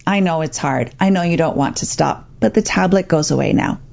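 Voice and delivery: calm, understated firmness; calm parent. Shown as a demonstration. Parent telling child the tablet goes away, calm. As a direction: say it evenly, as the calm one in charge. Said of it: "you could calmly say".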